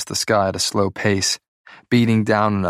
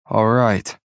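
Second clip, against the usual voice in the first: slow. Acted. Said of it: "I say slowly".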